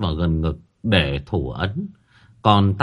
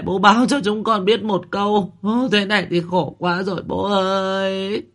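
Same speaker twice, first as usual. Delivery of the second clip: much higher keening cry for father; wailing lament; 11 semitones higher than usual. A narrator's reading. Daughters wailing over father's coffin, high keening lament. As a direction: wail over the coffin in grief. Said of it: "nháo nhào than khóc".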